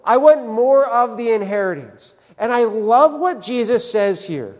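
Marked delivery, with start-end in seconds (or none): 0.0-2.1 mild mock yell of a demand; mock calling out. Younger brother demanding more inheritance from Jesus, mildly mock-yelled. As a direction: call out insistently, without fully shouting. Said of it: "this younger brother yells out to Jesus".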